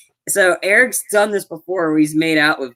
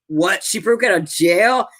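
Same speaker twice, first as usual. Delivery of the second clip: higher-pitched, questioning surprise; mock disbelief; 3 semitones higher than usual. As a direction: lightly imitate a startled double-take. Acts out shocked reaction to jailbreak.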